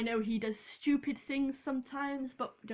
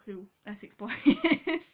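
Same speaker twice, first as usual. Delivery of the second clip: laughing; 6 dB louder than usual. Real, not acted. Breaks into laughter while explaining.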